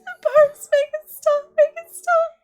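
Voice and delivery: very high, loud, sobbing wail; child shrieking in agony from the fire; crying in pain. Acted. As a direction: scream through tears as if burning. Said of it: "She goes".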